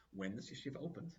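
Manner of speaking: quiet, even, unhurried assurance; calm. Retold or imitated. Promising the yeshiva's opponent a celebration, calm and quiet. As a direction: soothe him without pushing. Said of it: "it was calm".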